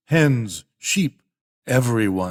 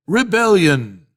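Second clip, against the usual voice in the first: slow, loud, drawn-out battle cry; rallying cry; 5 semitones higher, 4 dB louder than usual. Acted. Old boar rousing the farm animals to revolt, slow loud cry. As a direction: hurl the word at the crowd like a banner.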